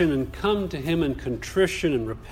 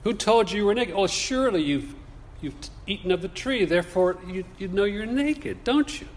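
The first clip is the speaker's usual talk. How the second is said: gently probing God; 4 semitones higher, faster than usual. Acted. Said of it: "it has more the force of".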